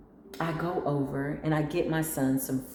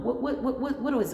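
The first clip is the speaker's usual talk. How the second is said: eager; 8 semitones higher than usual. Retold or imitated. Pleading to the universe.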